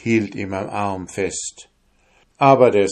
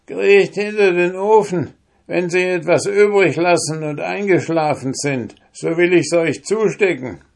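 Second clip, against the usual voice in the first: higher, urgent whisper-free hurry to hide them; old woman's urgent advice; 10 semitones higher, 4 dB louder than usual. Acted. Old woman hurrying the soldiers into hiding, urgent and higher. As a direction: hurry them behind the oven.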